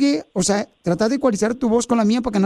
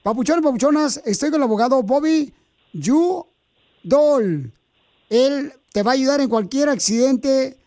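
ad read; 2 semitones higher, slower than usual. Acted. Host recording the lawyer's commercial, upbeat. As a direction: sell the lawyer to the audience.

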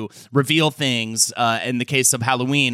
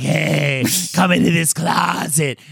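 put-on shady old-Hollywood Transatlantic voice; Transatlantic accent; 2 semitones higher, slower than usual. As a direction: lure him in, Transatlantic accent. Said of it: "Transatlantic accent".

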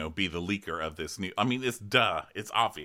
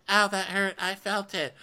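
mock hurt; 10 semitones higher than usual. Mock pain.

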